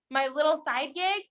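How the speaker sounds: incredulous mock repeat; mocking echo. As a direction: echo it back in disbelief. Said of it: "That's horrible".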